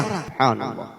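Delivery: hushed awe. Real, not acted. Preacher's hushed exclamation.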